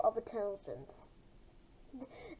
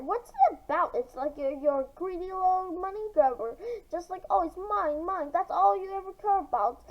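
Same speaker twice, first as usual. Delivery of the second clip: angry mocking; 5 semitones higher than usual. Mara mocks greedy Greg.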